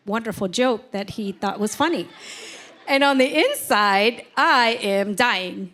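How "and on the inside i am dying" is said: slow, drawn-out lament of inner pain; dramatic. Real, not acted. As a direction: stretch it out like a melodrama. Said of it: "I'm sounding pretty dramatic".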